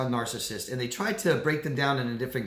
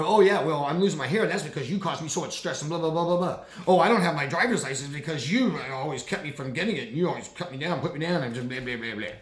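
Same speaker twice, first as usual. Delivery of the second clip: mock accusing rant; blaming; 2 semitones higher than usual. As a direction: imitate a narcissist piling up excuses. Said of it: "Or they blame you".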